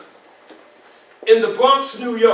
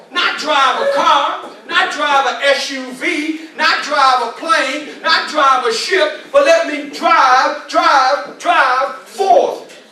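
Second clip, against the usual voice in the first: building; 3 semitones higher, slower than usual. Real, not acted. Sermon-style build.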